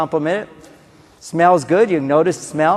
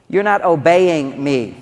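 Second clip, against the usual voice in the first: slow, deliberate demand for obedience; controlling parent; slower than usual. Retold or imitated. Parent to child, slow controlling demand. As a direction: spell out the obedience slowly. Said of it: "that sounds too controlling".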